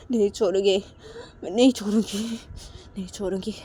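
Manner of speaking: mild tearful threat; acted angry vow. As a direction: vow revenge with a touch of anger. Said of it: "गुस्सा करने लगती है". (हल्के गुस्से में धमकाते हुए)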